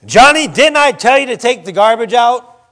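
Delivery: scolding dad. Acted. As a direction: raise the voice a little, like a dad reminding his son. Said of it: "how many are dads in here".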